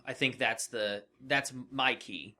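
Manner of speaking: usual speaking voice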